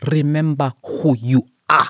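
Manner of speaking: voice of a father lion. Describing the joke told in therapy, line done in Mufasa voice. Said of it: "in my Mufasa voice".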